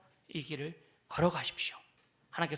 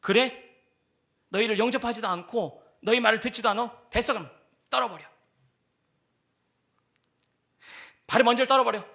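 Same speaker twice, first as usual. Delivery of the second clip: louder, brisk dismissal of the rejecters; Jesus speaking; 3 semitones higher, 6 dB louder than usual. Acted. Jesus telling disciples to shake off the dust, loud and firm. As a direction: tell them to just shake it off. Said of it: "예수님이 미리 선수 치는 겁니다".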